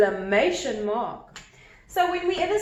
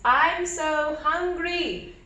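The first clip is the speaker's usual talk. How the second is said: mild exclaim; 5 semitones higher, much slower than usual. Shown as a demonstration. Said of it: "words ... coming out of Harry's mouth".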